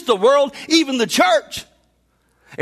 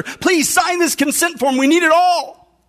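higher and slow, gently insistent plea; pleading doctor; 5 semitones higher, slower than usual. Acted. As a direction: lean in and press the father slowly.

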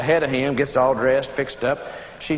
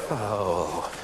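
low, drawn-out, softer "oh"; tempted "oh"; 12 semitones lower, 9 dB quieter than usual. Retold or imitated. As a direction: drop way down on a long tempted "oh". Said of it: "she just sort of tempted".

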